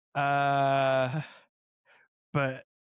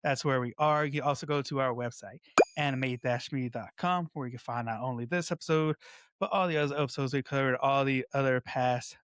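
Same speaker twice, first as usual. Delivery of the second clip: upbeat, slightly raised plug for the show; podcast plug. Acted. Host plugging the podcast to listeners, upbeat promo read. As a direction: sell it to the listeners.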